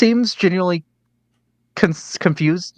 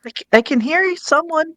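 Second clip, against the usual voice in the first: high, lost ghost voice; 14 semitones higher than usual. Acted. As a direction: speak like a confused spirit.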